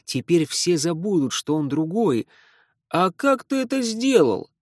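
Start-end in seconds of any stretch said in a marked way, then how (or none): 2.9-4.5 high, loud curious question. Acted. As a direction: call it out across the room. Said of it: "раздался громкий вопрос".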